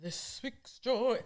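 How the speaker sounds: slow, quiet words through held-back laughter; stifled giggles. Real, not acted. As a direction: try to say it without cracking up. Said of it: "I can't stop".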